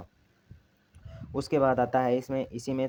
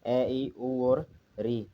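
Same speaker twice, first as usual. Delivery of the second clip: slow vowel listing; much slower than usual. Shown as a demonstration. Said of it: "इसमें चार स्वर आते हैं".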